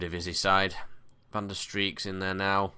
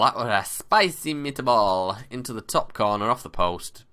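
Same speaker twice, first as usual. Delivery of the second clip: hammed-up Italian commentator, loud; a playful fake Italian accent on the goal call; mock Italian accent; 5 semitones higher, 7 dB louder than usual. Excited gamer cheering a goal in a mock Italian accent. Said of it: "I don't know why I went Italian".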